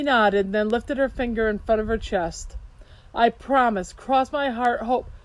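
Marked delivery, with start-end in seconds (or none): 3.1-5.1 a promise cut off mid-phrase at "hope"; breaking off abruptly. A narrator's reading. Niece promising her uncle, breaking off abruptly. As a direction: stop dead after "hope". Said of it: "She stopped abruptly".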